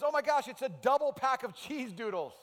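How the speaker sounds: loud, high, thrilled exclamation; excited discovery. Retold or imitated. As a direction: shout it like he found treasure. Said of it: "And he's so excited".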